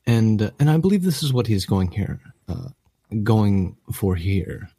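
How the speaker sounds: a hint of a frail old professor; very old man. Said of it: "I'm a very old man".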